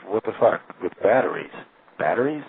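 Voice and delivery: mock disbelief, rising to a high questioning finish; sarcastic. Retelling a woman's phone rant about batteries, sarcastic disbelief. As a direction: imitate someone sarcastically incredulous. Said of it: "being sarcastic".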